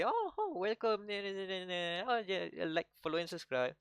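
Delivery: airy high-pitched streamer greeting; mock-nonchalant livestream host. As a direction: toss it off in a high mocking streamer voice. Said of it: "nonchalantly say".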